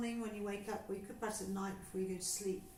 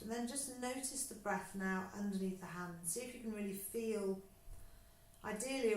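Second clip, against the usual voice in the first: guided breathing. Acted. Teacher guiding a class through breathing, calm and unhurried. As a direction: talk them gently through each breath.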